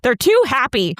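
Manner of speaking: high-pitched posh London complaint; posh British accent. Retold or imitated. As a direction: imitate an annoyed posh Englishwoman. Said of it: "She has a posh accent".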